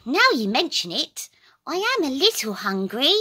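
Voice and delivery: high, small creature voice; squeaky little critter saying no. A narrator's reading. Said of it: "The little creature sniffs".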